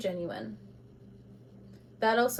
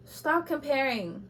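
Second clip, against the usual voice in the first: sharp; 4 semitones higher, slower than usual. Real, not acted. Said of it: "I'm being sharp".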